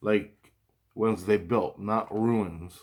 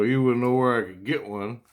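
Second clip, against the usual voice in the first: said jokingly, a little higher; 3 semitones higher, 4 dB louder than usual. Retold or imitated. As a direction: ask it as a light joke. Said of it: "you know, jokingly".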